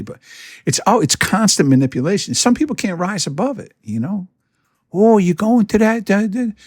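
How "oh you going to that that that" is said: mock innocent probe. Mimicking a manipulating friend.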